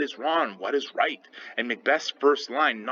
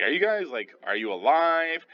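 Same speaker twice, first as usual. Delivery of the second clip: half-hearted imitation of yelling at strangers; mild mock yell; 6 semitones higher than usual. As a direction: call out to them in a raised pitch, without real volume. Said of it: "he kinda yells at them".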